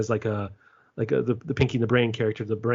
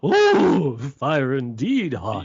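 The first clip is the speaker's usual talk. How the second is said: drawn-out, louder, dim-witted quote; slow dopey voice; 3 semitones higher, 3 dB louder, much slower than usual. Retold or imitated. Podcaster quoting dumb crew, slow dopey voice. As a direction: play it slow and witless, mouth hanging open.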